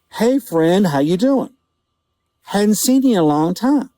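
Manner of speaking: imitated old man's cheery welcome; friendly greeting. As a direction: hail a stranger like an old friend. Old man greets the visitor.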